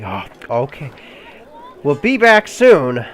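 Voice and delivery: voiced character hiding mild frustration; frustrated but accepting. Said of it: "she is frustrated, but she's like".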